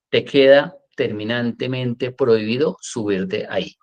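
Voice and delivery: measured firmness without shouting; firm but loving. Shown as a demonstration. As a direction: lay down the rule with character, lovingly. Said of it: "Pero sí hablarle con carácter". (con carácter y con amor)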